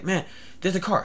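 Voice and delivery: drugged stranger. Retold or imitated. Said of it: "either he was crazy or he was on".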